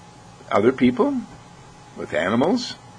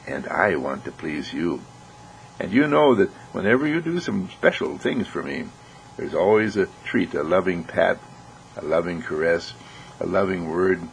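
soothing horse whisperer. Acted. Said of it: "the horse whisperer whispers to his horse".

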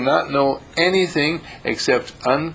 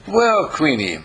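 respectful greeting; 5 semitones higher than usual. Shown as a demonstration. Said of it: "that's a tone of respect".

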